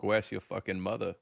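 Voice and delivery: a hint of a New York accent, tough bar talk; lightly put-on New York tough guy. Shown as a demonstration. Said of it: "that was my New York".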